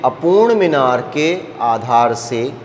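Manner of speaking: slow, measured question read-out; slow, careful reading. Real, not acted. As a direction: dictate it slowly to the class. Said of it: "धीरे धीरे बोल रहा हूँ". (धीरे-धीरे, ढंग से पढ़ते हुए)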